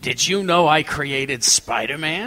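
slow, smug pickup line; cheesy pickup line. Retold or imitated. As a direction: lay on the cheesy charm. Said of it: "here's my pickup line".

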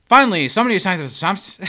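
hurried, stilted delivery of the line; bad acting. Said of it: "Chevy delivers it like".

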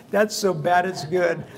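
high, loud words through real laughter; laughing. Real, not acted. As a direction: talk while cracking up. Laughing at own corny pun.

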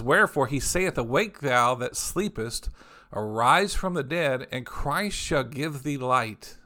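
slow, solemn reading of scripture. Acted. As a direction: read each phrase out slowly, with weight. Reads King James scripture aloud.

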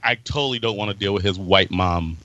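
deep, weary cop voice; a lazy cop shrugging it off; low cop voice. Retold or imitated. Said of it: "He's like".

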